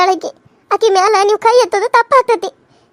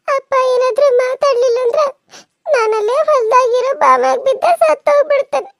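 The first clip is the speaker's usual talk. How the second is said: crying; 2 semitones higher than usual. Acted. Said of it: "ಯಾಕಕ್ಕ ಅಳಕತ್ತಿದಿ?".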